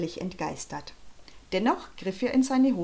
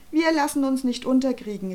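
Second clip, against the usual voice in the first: raised, higher rallying voice; calling out; 5 semitones higher, 4 dB louder than usual. Acted. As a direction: call it out with defiant spirit. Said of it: "rief Sascha". (kämpferisch gerufen)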